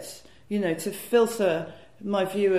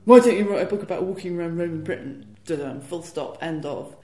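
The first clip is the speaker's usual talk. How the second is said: lightly voiced gruff agent; 5 dB louder than usual. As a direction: imitate a gruff man of few words. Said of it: "in his very gruff way".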